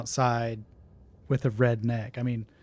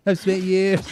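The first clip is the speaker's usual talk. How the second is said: higher, louder, slow through laughter; laughing repeat; 6 semitones higher, 5 dB louder, slower than usual. Real, not acted. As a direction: repeat it loudly, cracking up. Repeats own line while laughing.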